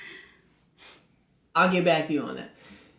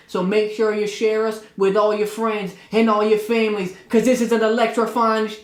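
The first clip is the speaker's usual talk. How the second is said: wrestling promo. Pretend. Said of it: "that's your wrestling voice?".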